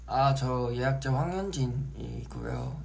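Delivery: 긴장해서 느릿하게 더듬는 통화; 피부과 예약 전화를 떨며 하듯; nervous phone voice. Retold or imitated. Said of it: "전화 받을 때 이렇게 긴장되는지". (피부과 예약 전화하며 긴장한 목소리)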